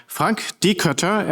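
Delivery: "Dikötter" with a rounded German ö; German umlaut pronunciation. Shown as a demonstration. German host introducing the guest, "Dikötter" with a proper umlaut. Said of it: "privilege of being able to pronounce umlauts".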